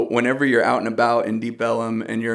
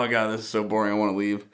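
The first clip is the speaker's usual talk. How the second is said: put-on bored kid; 5 dB quieter, faster than usual. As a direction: lightly voice a kid who's fed up, trailing softer. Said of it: "I'm bored".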